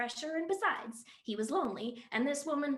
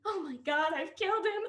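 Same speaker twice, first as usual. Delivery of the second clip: crying; 5 semitones higher, 6 dB louder than usual. Acted. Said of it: "she began to cry again".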